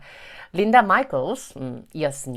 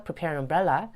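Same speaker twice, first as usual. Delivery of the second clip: "prepare an umbrella" with the end slightly lifted; unfinished rise on "prepare an umbrella"; held list tune; much slower than usual. Shown as a demonstration. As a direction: keep "prepare an umbrella" open, as a list item. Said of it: "살짝 올려주시거나 억양 유지".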